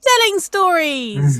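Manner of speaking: loud, slow teasing reveal; dramatic reveal. Acted. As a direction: build suspense on it. Host hyping the reveal.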